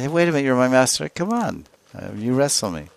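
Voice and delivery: playful, rushed disbelief; taken-aback servant. Acted. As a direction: protest as a startled servant, pitch lifted. Servant balks at master's challenge.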